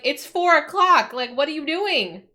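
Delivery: high, loud exasperated scolding; mad. Retold or imitated. Streamer scolding the front room light, comically mad. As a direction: scold a misbehaving gadget, half laughing by the end. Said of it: "I'm just so mad".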